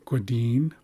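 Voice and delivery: "Gwadine" with a "gw" onset, rising at the end; rounded G. Shown as a demonstration. Teacher repeating the example word, "Gwadine" with rounded G. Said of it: "this is a rounded G, gwa".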